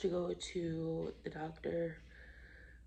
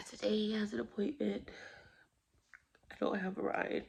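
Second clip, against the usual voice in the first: hushed and breathy, near tears; whispering; 3 semitones higher than usual. Real, not acted. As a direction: whisper it, worn out after crying. Whispered vlog after crying.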